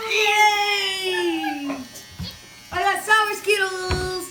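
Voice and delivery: excited cheer. Real, not acted. Wins the round.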